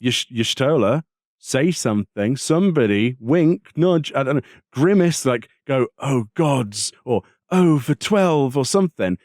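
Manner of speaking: high, pleading exasperation at the characters; exasperated plea. Retold or imitated. Griping to co-host about the silent ending, high exasperated plea. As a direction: beg the silent heroes to react, voice up high.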